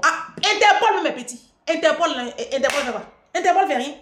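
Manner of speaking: loud, high mocking dismissal of Interpol; scornful rant. Real, not acted. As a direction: scoff loudly at the idea.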